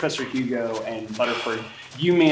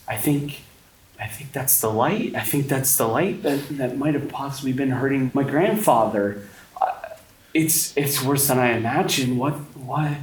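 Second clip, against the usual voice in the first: higher voice, nervous and halting; shaken Amelia; 5 semitones higher than usual. Acted. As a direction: stammer it out, rattled. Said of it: "Amelia begins to go".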